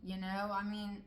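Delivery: incredulous pushback. Retold or imitated. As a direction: protest high and loud like she can't believe it. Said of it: "And I, I said".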